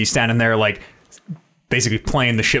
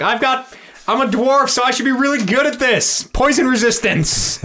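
higher, cocky self-assured boast; eager dwarf boast; 13 semitones higher than usual. Retold or imitated. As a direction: brag like a proud dwarf. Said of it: "I remember being like".

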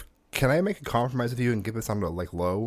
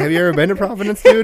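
exasperated; 10 semitones higher, 10 dB louder than usual. Retold or imitated. Exasperated retort to apologizing staff.

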